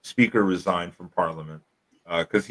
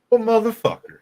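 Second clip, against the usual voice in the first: mock indignant squeal. Watching ambassador skip the line.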